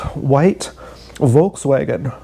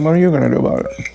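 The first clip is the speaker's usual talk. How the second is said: faster shrugging take; faster than usual. Retold or imitated. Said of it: "Kind of".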